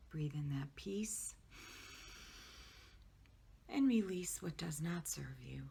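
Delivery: calm guided relaxation with long pauses; guided meditation. Acted. Social worker guiding listeners to relax their bodies, guided meditation. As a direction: lead them gently through the relaxation, pausing between phrases.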